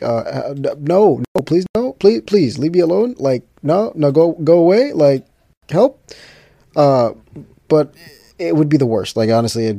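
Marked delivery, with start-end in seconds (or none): 0.0-6.0 higher, louder pleading; mock panic. Celebrity swarmed by fans, pleading in hammed-up panic. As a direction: beg them to go away in mock panic. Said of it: "I'd be like".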